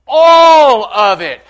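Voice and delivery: each word pressed, slow and loud; all of it, hammered slowly; slow loud insistence. Real, not acted. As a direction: drive it home word by word. Insisting on the whole gospel.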